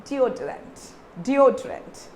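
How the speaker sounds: deodorant as dee-o-trent; model pronunciation. Shown as a demonstration. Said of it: "how do you say this".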